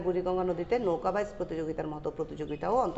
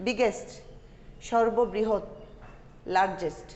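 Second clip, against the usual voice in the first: vocabulary drill. Shown as a demonstration. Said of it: "উচ্চারণগুলো কিন্তু তোমরা খেয়াল করবে".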